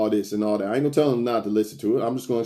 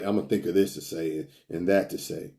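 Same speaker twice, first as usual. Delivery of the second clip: much softer, lower inner voice, mocking; hushed mock plotting; muttered mock thought; 6 semitones lower, 7 dB quieter than usual. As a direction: mumble it to yourself like a scheming guy. Mocking a man scripting his lines.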